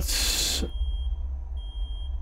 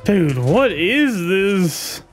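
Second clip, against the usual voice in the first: slow, drawn-out uneasy question; scared horror game streamer; 5 semitones higher, much slower than usual. Real, not acted. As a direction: let the dread stretch every word.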